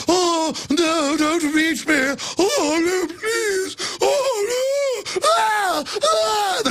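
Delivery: high, wailing mock whimper of cowering men; mocking helpless men. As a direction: whine like a helpless victim begging. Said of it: "the men just fall down and go".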